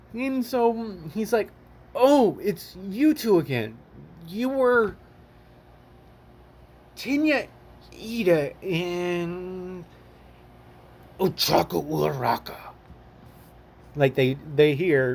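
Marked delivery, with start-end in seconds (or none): 1.9-12.5 slow, scary, menacing voice. Retelling a scene where Toxin meets two characters again, Toxin's scary voice. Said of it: "Using that voice, you'll scare people".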